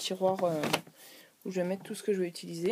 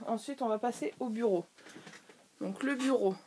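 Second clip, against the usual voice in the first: voix gênée par un chat dans la gorge; gorge encombrée; 2 semitones higher than usual. Real, not acted. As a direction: talk with something stuck in the throat. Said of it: "j'ai un truc dans la gorge". (voix avec un chat dans la gorge)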